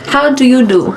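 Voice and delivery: laughing transatlantic "How do you do?"; posh old-film greeting, with a laugh; transatlantic accent. Pretend.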